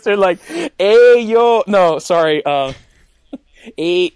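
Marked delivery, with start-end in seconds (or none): 0.8-1.6 put-on higher, louder Cholo accent greeting; hammed-up Cholo accent callout; bad Cholo accent. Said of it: "Charlie and Mac are speaking like this". 3.8-4.1 put-on corrected Cholo accent greeting, a bit louder; retry the Cholo accent, toned down; bad Cholo accent. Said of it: "My accent's really bad".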